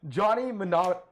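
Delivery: "Mnemonic" cut short as "muh-NAH-"; failed pronunciation. Real, not acted. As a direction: get stuck halfway through "Mnemonic". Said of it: "I can't even say it anymore".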